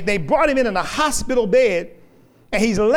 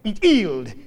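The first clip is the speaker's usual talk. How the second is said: put-on low calm Welsh accent; unbothered, low, Welsh; 4 semitones lower than usual. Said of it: "had a very heavy Welsh accent".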